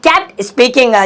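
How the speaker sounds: "kept speaking" drawn out extremely slowly; very slow dictation; slow teaching repeat. Shown as a demonstration. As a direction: spell the phrase out for learners. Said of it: "slow repeat for learners".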